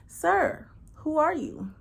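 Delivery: high, puzzled question; baffled. Retold or imitated. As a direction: ask it high and confused. Confused at stranger.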